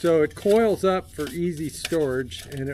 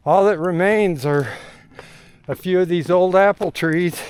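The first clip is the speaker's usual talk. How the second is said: out of breath; 4 dB louder than usual. Real, not acted. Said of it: "Sorry, I'm out of breath. I'm going uphill".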